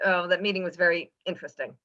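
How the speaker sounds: brisk, understated annoyance; a touch of dismissive annoyance; mildly annoyed. Shown as a demonstration. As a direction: toss it off quickly with mild irritation. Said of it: "if I was annoyed".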